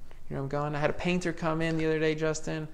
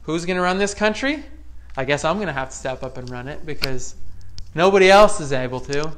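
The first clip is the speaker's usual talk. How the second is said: put-on confident kids; 6 dB louder than usual. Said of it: "they're like".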